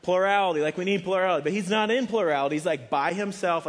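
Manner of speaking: loud and high, driving the point home; forceful preaching. Real, not acted. Preacher pressing his congregation on deciding alone, loud and high. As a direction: preach it out, hammering plurality.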